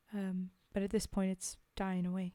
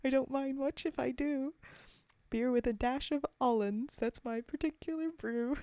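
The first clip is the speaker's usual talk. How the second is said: mock grateful drinker; 4 semitones higher than usual. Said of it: "He says".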